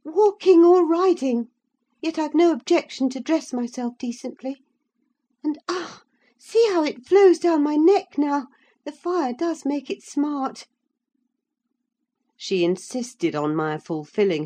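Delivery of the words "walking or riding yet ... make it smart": put-on high, headstrong young lady, stung by her wound; defiant young woman in pain. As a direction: press on high and proud, wincing at the smart. Isabella insists, wound smarts.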